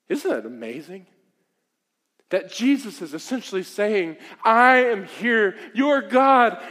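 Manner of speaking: slow, emphatic voice of Jesus; preacher lightly voicing Jesus. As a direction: proclaim it as Jesus would. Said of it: "he stands and he says".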